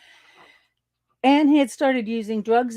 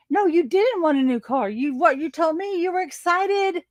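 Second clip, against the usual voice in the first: indignant rant; 5 semitones higher than usual. Retold or imitated. I'm so mad.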